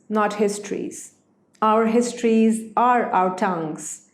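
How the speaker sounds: measured, carefully phrased reading aloud; literary essay reading. Acted. Author reading essay passage to listeners, measured literary reading. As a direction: read the prose aloud with deliberate emphasis and pauses.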